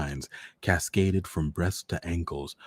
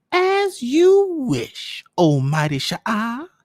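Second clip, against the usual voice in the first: very high, very loud, swooping falsetto squeak; 9 dB louder than usual. The Mjimja answers the Shah after being scolded, in a squeaky falsetto. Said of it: "said in a squeaky falsetto tone".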